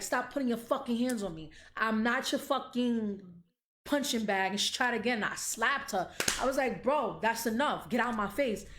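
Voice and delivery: loud, high mock fury; snapping at her mother again in the telling; angry retold yell. To her mother after being slapped, loud high fury. Quoting herself yelling at mother.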